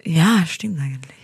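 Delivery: whispered dry aside. Real, not acted. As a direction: breathe it out as a sly whisper. (geflüstertes trockenes Zugeständnis)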